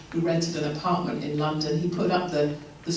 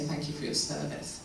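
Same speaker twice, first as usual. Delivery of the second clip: sincere thanks; 8 dB quieter than usual. Retold or imitated. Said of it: "you'll say".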